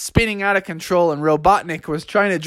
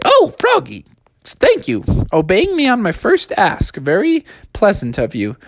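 higher, proper praise; prim mom; 4 semitones higher than usual. Acted. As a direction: approve like a strict mother.

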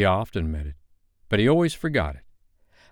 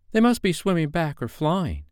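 put-on high, raised boyish voice; boys' voices; 9 semitones higher than usual. A narrator's reading. Boys concluding their friends are safe, high boyish voice. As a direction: speak up as a young boy, pitched high.

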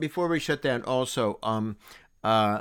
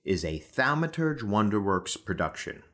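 credits read. Acted. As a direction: read the credits like a closing announcement.

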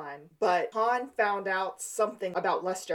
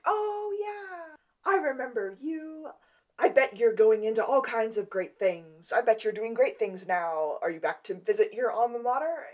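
put-on higher professor voice, eager; lightly hammed-up professor voice; high mock professor; 4 semitones higher, 3 dB louder than usual. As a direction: gush like a forgetful professor.

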